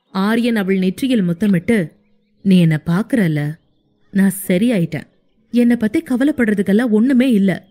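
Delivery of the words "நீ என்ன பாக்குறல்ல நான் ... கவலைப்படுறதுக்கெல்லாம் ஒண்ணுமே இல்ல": hero wiping her tears, soothing her; lightly voiced young man comforting. (தாழ்ந்த மென்மையான ஆறுதல் குரல்)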